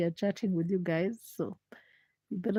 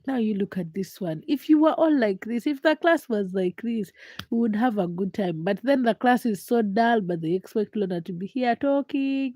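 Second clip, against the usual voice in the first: mild mock classroom lecture; teacher scolding. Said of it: "be like your teachers in class".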